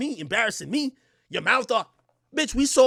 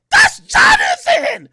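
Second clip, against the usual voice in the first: put-on very high, loud incredulous girly voice; mimicking girlfriend; 14 dB louder, much slower than usual. Narrator imitating his date shocked he is mad. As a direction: squeal in disbelief like her. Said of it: "her reply".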